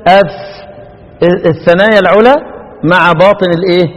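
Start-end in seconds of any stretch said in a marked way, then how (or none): 0.1-0.3 "أف" ending in sustained f friction; fa articulation demo. Shown as a demonstration. Teacher asking students to watch, held "أف". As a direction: stretch the f at the end of "أف". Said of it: "بص لي كده".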